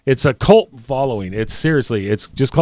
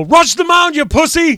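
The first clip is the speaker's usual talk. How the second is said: much higher mock heckle; heckling yell; 12 semitones higher than usual. Teammate yelling at the hit batter to charge the pitcher, high heckling yell. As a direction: egg him on from the dugout. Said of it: "Planky didn't hear me go".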